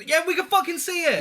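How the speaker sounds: loud, high mock outburst of the bored crew; mock exasperated shout. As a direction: burst out mockingly at the obvious. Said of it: "It's like".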